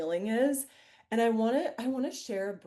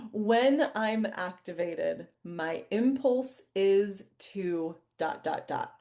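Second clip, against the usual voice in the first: slow, deliberate prompt reading; slow dictation; slower than usual. Real, not acted. Host dictating a writing prompt to the group, slow and deliberate. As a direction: draw each phrase out slowly.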